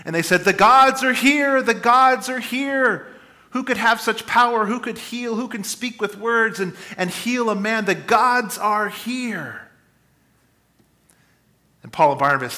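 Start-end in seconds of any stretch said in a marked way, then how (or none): 0.4-9.6 high, loud and slow, awestruck; awed crowd cry. Retold or imitated. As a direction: proclaim it like a crowd seeing a miracle. Crowd worships Paul and Barnabas.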